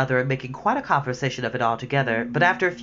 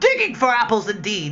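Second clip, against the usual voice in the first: cross, indignant, angry, high scoff; 6 semitones higher than usual. A narrator reads the rabbit's reply to Pat; angry. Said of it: "said the rabbit angrily".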